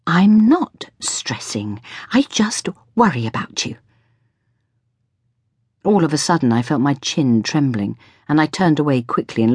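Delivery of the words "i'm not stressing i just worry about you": breaking into a whispery, wavering voice; slow, half-whispered worry; close to tears. A narrator's reading. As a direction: protest while holding back tears. Mother near tears, chin trembling.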